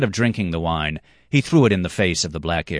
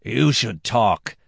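slow, drawn-out sarcasm; sarcastic retort; 5 semitones higher, much slower than usual. Acted. Red-haired man mocks the black-haired one, slow and sarcastic. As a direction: throw it back slowly. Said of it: "said the red-haired one".

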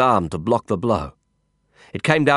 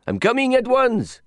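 shouting. Acted. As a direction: call it out firmly. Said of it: "he shouted".

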